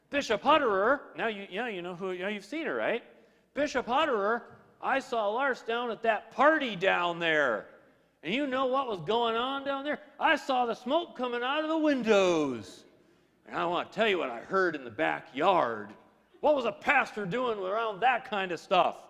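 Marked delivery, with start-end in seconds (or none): 0.1-1.0 lightly voiced indignant complainer, louder; tattling churchgoer. Acted tattletale phoning the bishop. 3.6-19.0 lightly voiced scandalized informant; tattling churchgoer. Acted tattletale reporting pastor to bishop.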